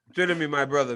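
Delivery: loud, playful appeal by name; mock pleading. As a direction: call out to him with hammed-up pleading. Mock appeal to absent Leon.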